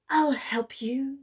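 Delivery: reach out gently from beneath the water; calling unicorn. A narrator's reading. Sea unicorn calling to the falling wolf, whispered. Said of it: "she called".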